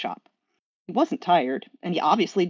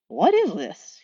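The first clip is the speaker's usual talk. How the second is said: higher, baffled demon voice; puzzled demon; Crowley asking; 5 semitones higher, slower than usual. Acted. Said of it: "he asked".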